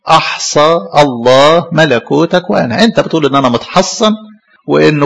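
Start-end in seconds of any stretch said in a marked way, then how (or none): 0.1-2.8 slower, measured recitation; solemn scripture repeat. Retold or imitated. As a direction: deliver the verse again, weighty. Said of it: "وراح عيدها له تاني".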